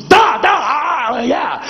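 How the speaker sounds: high, slow "duh, duh, ah"; slow mimic. Attendant copying the narrator's grunt, high and slow. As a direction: drag it out like copying him.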